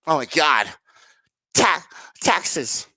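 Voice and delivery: breathless whisper of the word; whispered dread. Real, not acted. Talking to chat about tax hikes, whispered dread.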